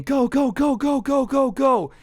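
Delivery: high, loud frantic yell; screaming go. Retold or imitated. Friend diving into the car, screaming at the driver to go. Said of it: "just starts screaming".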